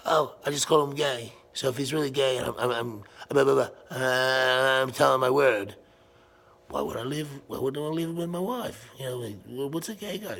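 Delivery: high, imitated stammering confusion; mock a man at a loss for words; flustered dude. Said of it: "They don't know what to say".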